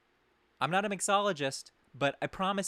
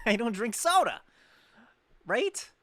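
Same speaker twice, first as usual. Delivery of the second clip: higher and louder, laughing through it; laughing disbelief; 7 semitones higher, 7 dB louder than usual. Retold or imitated. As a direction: laugh out the refusal again. Laughing while retelling his refusal.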